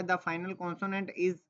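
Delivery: reading a textbook line slowly to students; slow reading aloud. Shown as a demonstration. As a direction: read the rule out slowly, word by word. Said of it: "इसमें लिखा हुआ है".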